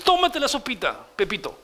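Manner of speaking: lightly voiced teacher coaxing a child; a mild sing-song nudge to eat up. Sunday school teacher coaxing Pepito to eat, lightly mock. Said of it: "así vamos a tener que enseñar".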